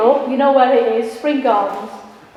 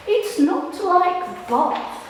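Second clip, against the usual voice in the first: slow mock southern English drawl, laughing through; southern accent; 5 semitones higher, 5 dB quieter, slower than usual. Poet mocks boyfriend comparing Buxton to Bath, southern accent. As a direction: lightly imitate the southern boyfriend, stifling a laugh. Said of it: "I can't do a southern accent".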